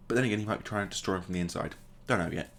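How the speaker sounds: ordinary talk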